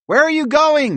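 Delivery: high, loud questioning shout; calling out. A narrator's reading. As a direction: call after someone leaving. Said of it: "Bob called out".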